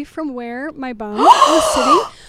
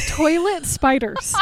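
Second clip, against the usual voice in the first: laughing; 2 semitones higher, 4 dB louder, slower than usual. Real, not acted. Laughing at the horror.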